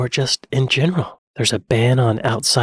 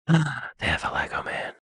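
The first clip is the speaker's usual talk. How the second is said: surprised gasp; 8 dB quieter than usual. Real, not acted. Gasping at a costume find.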